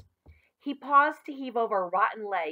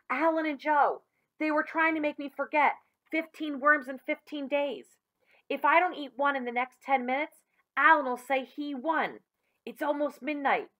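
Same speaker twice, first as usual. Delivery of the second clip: excited explaining; 6 semitones higher than usual. Acted. Billy explains breathlessly.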